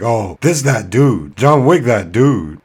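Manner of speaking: slow loud awed praise; impressed awe. Retold or imitated. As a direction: draw it out, amazed. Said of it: "I looked at John Wick and was like".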